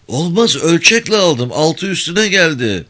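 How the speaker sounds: high-pitched, insistent rebuttal; heated contradiction; emphatic objection. A narrator's reading. Molla rebuts the other's claim.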